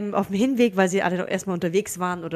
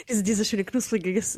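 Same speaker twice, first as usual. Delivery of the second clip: talking while chewing; mouth full; 6 dB quieter than usual. Real, not acted. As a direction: speak around a bite of pizza. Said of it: "Na, lecker".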